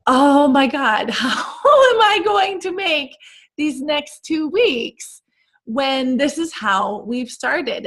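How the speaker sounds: half-laughing mock despair, high; inner panic. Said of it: "you're thinking".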